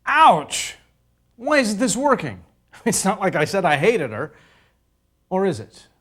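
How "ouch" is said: pained yelp. Acted. Reacts to a slap.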